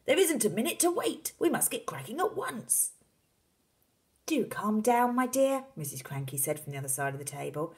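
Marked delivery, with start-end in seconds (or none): 0.1-2.9 high, insistent father voice; urgent shout. A narrator's reading. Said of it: "shouted Mister Cranky". 4.3-5.7 high, loud, rising remonstrance; exasperated wife. Acted. Wife scolds her excited husband.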